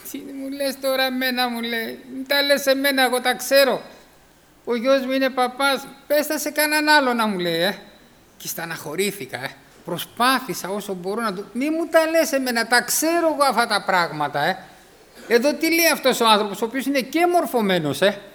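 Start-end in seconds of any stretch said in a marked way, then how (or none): 0.1-7.3 put-on dismissive old man. Dismissive hospital old man quoted. 11.5-14.6 mocking dismissal. Mocking the old man's brush-off.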